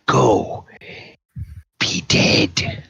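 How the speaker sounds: hushed monster dismissal; shooing the gnoll off with a sneer; bugbear taunt. Acted. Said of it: "the bugbear says".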